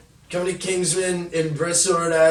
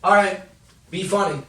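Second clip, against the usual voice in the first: demanding manager; 5 semitones higher, 3 dB louder than usual. Retold or imitated. Manager voiced in story.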